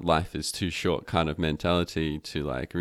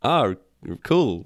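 high, louder, breezy "oh cool"; playfully nonchalant, much higher; mock casual reply; 6 semitones higher, 5 dB louder than usual. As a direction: shrug it off in a pitched-up voice. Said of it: "And I'm like".

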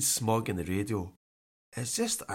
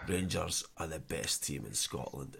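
mock pundit; 8 semitones lower, 10 dB quieter than usual. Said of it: "at the end of it he says".

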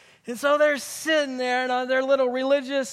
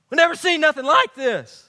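louder, higher "We've never seen nothing like this"; amazed crowd; 4 semitones higher, 5 dB louder than usual. Retold or imitated. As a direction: exclaim it in astonished disbelief.

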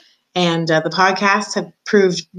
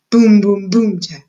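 ominous drumbeat, second beat louder; 3 semitones higher, 6 dB louder, slower than usual. A narrator's reading. Narrator drumming out the march to the dungeon, booming. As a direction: boom punched out loud, tat clipped short. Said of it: "an ominous sound that went something like this".

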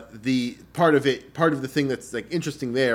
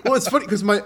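laughing; 10 semitones higher, 7 dB louder than usual. Real, not acted. Laughing while telling story.

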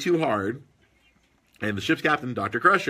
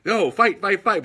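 put-on kid cheering; 6 semitones higher, 5 dB louder, slower than usual. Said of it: "I'm like".

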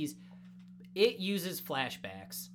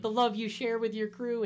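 raised, mock-sobbing admiration; mock tearful; 7 semitones higher, 4 dB louder than usual. Podcaster quoting crying Frankie to co-host, mock tearful. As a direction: gush it as if choked up, hammed-up. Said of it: "he's crying".

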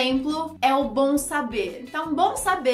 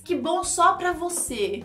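distant; 5 semitones higher, slower than usual. Acted. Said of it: "soa tão distante".

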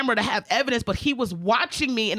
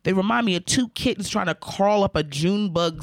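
lower, lightly Southern man's voice; Southern accent; 5 semitones lower than usual. Retold or imitated. Retelling the driver's odd compliment about lips, light Southern accent. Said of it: "very Southern".

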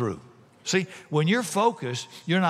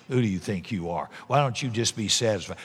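scornful critic; 6 semitones lower than usual. Acted. Mocking critics voiced.

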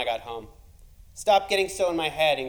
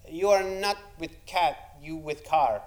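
put-on Spanish accent; slower than usual. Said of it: "Cooler Spanish she said".

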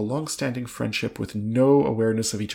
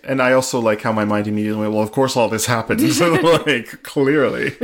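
laughing; 7 dB louder than usual. Real, not acted. Laughing at own reaction.

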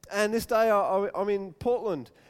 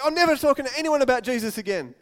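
fed-up vow; 5 semitones higher, 7 dB louder, faster than usual. Retold or imitated. Voicing a discouraged believer.

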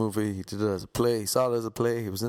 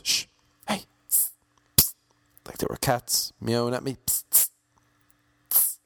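shushing. Retold or imitated. Shushing the couple.

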